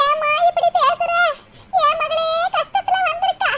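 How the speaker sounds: high, tearful plea with a sob-laugh catching in it; tearful pleading. Acted. Old mother pleading tearfully with her daughter-in-law. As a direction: beg her gently not to wound the daughter.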